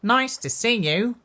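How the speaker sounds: high, loud welcoming call; loud sing-out welcome; hooted greeting. A narrator's reading. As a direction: hoot a big hello. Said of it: "And they hooted".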